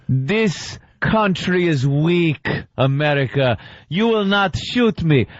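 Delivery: high, smug movie villain taunt; foreign bad guy speech. Mock villain taunting the cop at gunpoint. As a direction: gloat like a cornered foreign villain. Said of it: "the bad guy starts his speech".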